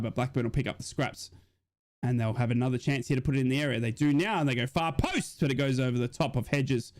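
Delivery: steady fan commentary call of the match; play-by-play commentary. Acted. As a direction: call the action like a stream commentator.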